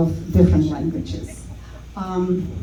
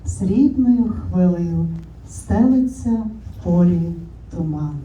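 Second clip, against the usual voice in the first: poem recitation. Shown as a demonstration. Showing the audience how Ukrainian sounds, recited poetically. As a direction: recite the Ukrainian verse with measured, lyrical phrasing. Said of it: "the first one is Ukrainian".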